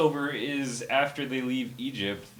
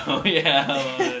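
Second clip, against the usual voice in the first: Macho Man impression. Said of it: "They both said brother. They said".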